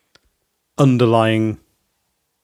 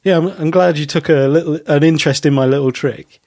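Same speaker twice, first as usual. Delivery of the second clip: higher, lightly belittling mock quote; self-patronizing; 4 semitones higher, 3 dB louder than usual. Podcaster imitating a magician on his little trick, mildly self-patronizing. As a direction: play down your own trick with mild condescension. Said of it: "almost a patronizing of himself".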